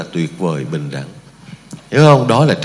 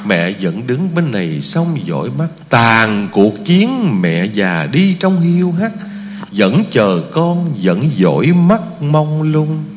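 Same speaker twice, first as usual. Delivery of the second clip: slow, tender poem recitation; recited poem; slower than usual. Acted. Monk reciting a mother's poem to the Buddhists, slow and tender. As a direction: recite it slowly, savouring each line.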